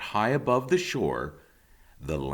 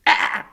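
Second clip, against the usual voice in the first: otter squeak; 10 dB louder than usual. A narrator's reading. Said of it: "The biggest otter squeaked".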